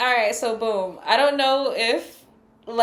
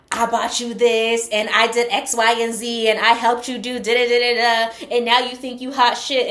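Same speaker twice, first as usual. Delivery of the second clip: mock indignation; 5 dB louder than usual. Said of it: "somebody that really feels like they put you on".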